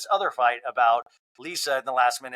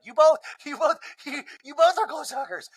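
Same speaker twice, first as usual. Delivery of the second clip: higher, laughing it out; Angie laughing; 12 semitones higher than usual. Retold or imitated. Angie laughs at both women, higher and giggly. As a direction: break into a laugh mid-line. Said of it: "And Angie's like".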